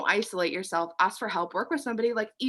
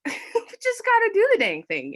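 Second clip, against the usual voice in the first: laughing; 13 semitones higher, 5 dB louder than usual. Real, not acted. Laughs mid-sentence.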